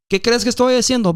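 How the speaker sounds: loud defiant comeback in Spanish; doubling down shout; retort. Retold or imitated. Retorting over dogs.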